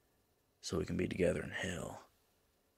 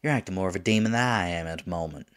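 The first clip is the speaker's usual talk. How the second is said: louder, quicker retort; exasperated chiding; 8 dB louder, faster than usual. Acted. Demon chides angel lover for poking fun, exasperated. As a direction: throw the teasing back at them, indignant.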